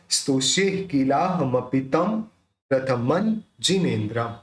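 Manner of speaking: M closing किलाहमपितम, N closing रथमन; dots as M, N. Shown as a demonstration. Teacher modelling both dots, किलाहमपितम with M, रथमन with N. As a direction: lips shut ending किलाहमपितम, clear N ending रथमन. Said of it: "तो कैसे होगा".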